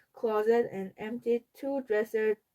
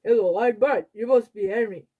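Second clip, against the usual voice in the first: puppet voice; 7 dB louder than usual. A narrator's reading. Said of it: "yapping away".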